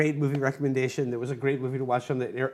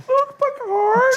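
hammed-up falsetto cry, very high and loud; Emo Philips; 8 dB louder, much slower than usual. Actor overdoing a Picard role, exaggerated falsetto. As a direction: stretch it out in a piercing mock voice. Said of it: "like an emo Phillips kind of Picard".

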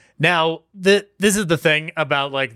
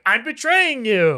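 dramatic villain line; 8 semitones higher, slower than usual. Retold or imitated. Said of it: "going like".

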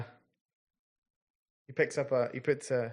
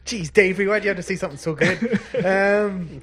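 higher, louder words through real laughter; laughing while talking; 6 semitones higher, 6 dB louder than usual. Real, not acted. Game master teases Davey for his joke, laughing through it. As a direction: talk through the giggles.

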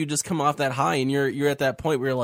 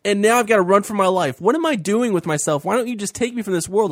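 higher, louder lament that cracks upward; hopeless Elijah; 5 semitones higher, 3 dB louder than usual. Retold or imitated. Host voicing Elijah begging God to take him, higher and louder. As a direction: throw up your hands in despair. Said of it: "he was feeling so hopeless".

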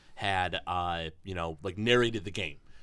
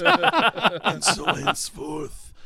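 high, louder, very slow creepy drawl; harsh creepy voice; 8 semitones higher, 7 dB louder, much slower than usual. Retold or imitated. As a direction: stretch every word like a possessed child. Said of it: "this harsh, creepy voice".

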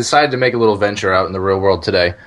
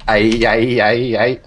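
aye aye noise; slower than usual. Pretend. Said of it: "I need one that goes".

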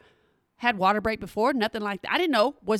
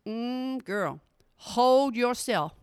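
mild nurse voice; much slower than usual. Retold or imitated. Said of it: "and she says".

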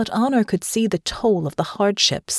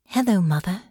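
a gentle hello with a light rise. Acted. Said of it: "answered gently".

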